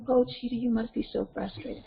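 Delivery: evenly voiced parental empathy; calm and centered. Shown as a demonstration. Parent soothing a child mid-tantrum, calm and centered. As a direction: stay chill as you sympathize. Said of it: "all chill, calm, and centered".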